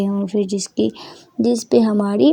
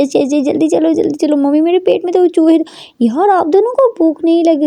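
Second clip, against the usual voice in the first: excited daughter; 5 semitones higher than usual. Acted.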